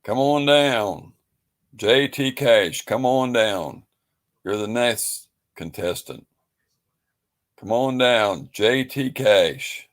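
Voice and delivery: high, slow, ringing "come on down"; mock game-show holler; game-show announcer call. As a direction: summon the next contestant with drawn-out excitement.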